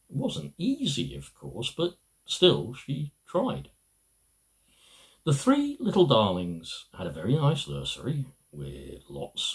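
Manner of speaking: lilting storybook narration with wide rises and falls; reading to children. Acted. Husband reading his wife's childhood book aloud, storybook narration. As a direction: tell it like a bedtime story for little ones.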